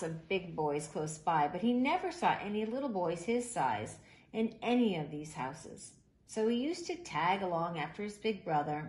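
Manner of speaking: put-on reading a picture book aloud to children; gentle, even storyteller read; story narration. A narrator's reading.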